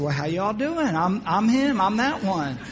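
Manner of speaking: lightly put-on Southern US accent. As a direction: slip back into a mild southern accent. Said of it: "changed my northern accent back to my southern".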